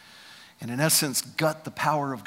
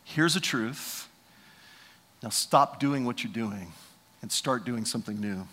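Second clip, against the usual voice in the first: stern apostle; 5 semitones lower, 5 dB quieter than usual. Retold or imitated. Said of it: "Paul comes down now and he says this".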